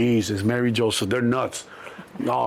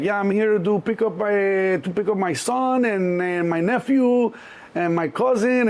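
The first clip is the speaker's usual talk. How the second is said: higher, slow careful request; mock polite mom; 6 semitones higher, slower than usual. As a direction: speak slowly to the desk cop. Mom at police station.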